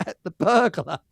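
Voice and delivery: a lightly put-on, bad American accent; terrible American accent. Retelling an American woman praising her pet rock, in a bad American accent. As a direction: mimic an American woman badly, half-hearted. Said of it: "sorry, it's a terrible American accent".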